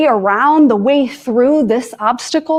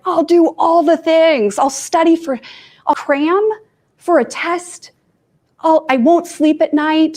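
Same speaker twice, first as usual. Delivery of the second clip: higher-pitched, hammed-up panic of promises; mock frantic overdrive; 5 semitones higher than usual. Her overwhelmed self vowing to cram, mock frantic. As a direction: rattle off plans like a frazzled student, voice pitched up. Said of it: "I'm like".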